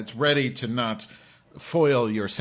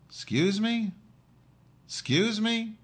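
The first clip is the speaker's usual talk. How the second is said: indignant disbelief; 11 semitones higher, slower than usual. Real, not acted. Indignant reply to an insult.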